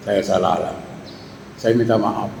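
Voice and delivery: soft imitated wife pleading for forgiveness; wife pleading softly. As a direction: beg quietly like a contrite wife. Wife apologises to husband.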